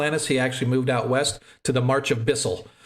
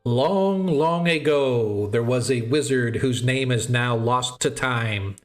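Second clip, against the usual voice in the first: bardic voice. Acted. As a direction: recite it like an old bard. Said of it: "tries to put on his best bardic voice".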